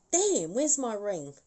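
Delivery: a touch of irritation, slow; a hint of the spirit's annoyance at the lost ring; mild annoyance. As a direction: mutter it while checking the hand. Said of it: "looking at her hand going".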